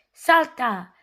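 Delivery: mild storybook shout; lightly shouted children's cheer. A narrator's reading. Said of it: "shouted Dora and the babies".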